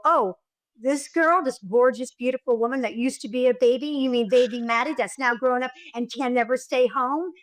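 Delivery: lightly acted, gushing reminder; gentle prompting. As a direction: cue her memory without shaming her. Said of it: "Now I go".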